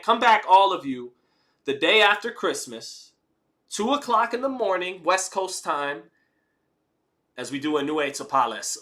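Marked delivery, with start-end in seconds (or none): 0.0-6.0 louder, higher hype announcement; excited call out. Real, not acted. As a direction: sell the next fight date. Hyping the next stream.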